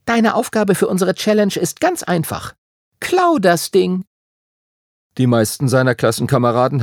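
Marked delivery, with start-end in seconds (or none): 0.1-4.1 put-on high demanding girl, slowing on the order; a bossy voice in his head; telepathic voice. A narrator's reading. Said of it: "hörte er Emmas Stimme in seinem Kopf".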